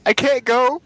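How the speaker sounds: high-pitched imitation of a man panicking; freaking out. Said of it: "he was freaking out".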